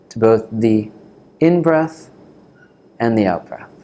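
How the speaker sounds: calm meditation teacher, long pauses between phrases; guided meditation. Real, not acted. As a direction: guide them gently into the breath, unhurried.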